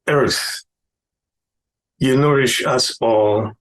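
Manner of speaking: measured poetry reading with long pauses; poem recitation. Acted. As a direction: recite it line by line, weighing each phrase. Reads own short poem.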